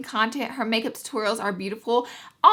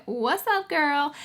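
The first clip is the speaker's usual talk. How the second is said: sassy greeting; 5 semitones higher, 4 dB quieter, much slower than usual. Pretend.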